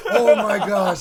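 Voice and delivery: amazed exclaim. Retold or imitated. Imitating amazed people.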